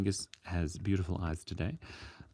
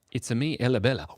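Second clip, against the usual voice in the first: loud, higher, playful character announcement; catchphrase voice; 4 semitones higher, 6 dB louder, faster than usual. Pretend. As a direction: announce yourself like a cartoon hero. Catchphrase-style announcement of viewer name.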